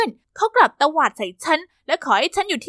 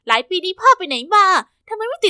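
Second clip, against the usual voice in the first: demanding daughter; 5 semitones higher, 5 dB louder than usual. Acted. Daughter confronts long-lost father.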